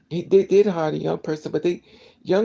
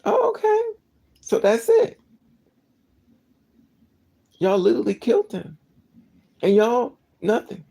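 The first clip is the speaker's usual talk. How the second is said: much higher, louder stunned oh, okay; incredulous disbelief; 6 semitones higher, 4 dB louder than usual. Real, not acted. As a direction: gape at it in disbelief. Incredulous reaction to indifference.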